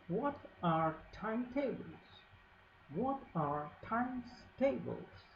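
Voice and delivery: a hint of a shrill elf; shrieking. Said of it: "The elf shrieked".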